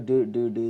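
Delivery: "ഡ്, ഡ്, ഡ്" as voiced du; voiced d sound. Shown as a demonstration. Teacher demonstrates the ending, "ഡ്" voiced. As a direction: repeat "ഡ്" with voice and a short vowel. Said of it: "ഡ് എന്നാണ് വരിക".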